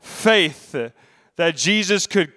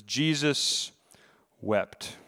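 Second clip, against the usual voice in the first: much softer, lower, drawn out; hushed reverence; 5 semitones lower, 9 dB quieter, much slower than usual. Acted. Preacher reading the verse to the church, hushed and reverent. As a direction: let it fall almost to nothing.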